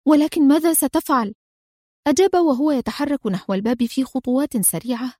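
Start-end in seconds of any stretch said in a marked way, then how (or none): 0.1-1.3 insistent question. A narrator's reading. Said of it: "تسأله في إصرار".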